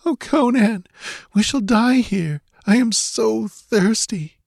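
put-on high, weary girl's voice, pleading; a parched girl whimpering to Conan. A narrator's reading. Exhausted girl begs Conan in the desert, high whimper.

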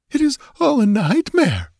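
put-on very high girlish distress; frightened whimper. A narrator's reading. Trembling girl clutching the giant's arm, whimpering. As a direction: whimper it, pitched right up. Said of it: "whimpered Natala".

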